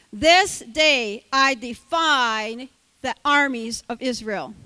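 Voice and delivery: slow, loud challenge; slow booming defiance. Acted. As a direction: drag out each word of the dare. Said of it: "the Philistine said".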